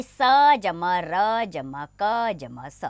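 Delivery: very slow, letter by letter; slow spelling out. Shown as a demonstration. Teacher spells a four-letter word slowly for pupils. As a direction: lay out each letter slowly for the class. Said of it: "चार वर्णों से बने शब्द".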